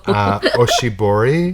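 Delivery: oshibori tried in Japanese with a laugh; trying Japanese. Real, not acted. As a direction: say oshibori carefully, unsure, laughing. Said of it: "I'm trying".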